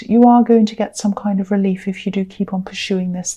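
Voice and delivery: stumbling over the words; halting, tripping on words; stuttering. Real, not acted. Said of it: "I am stuttering".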